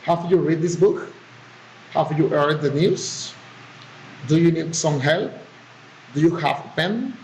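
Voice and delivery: yes-no questions lifting on "book", "news", "help", "pen"; rising intonation. Shown as a demonstration. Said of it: "the rising intonation".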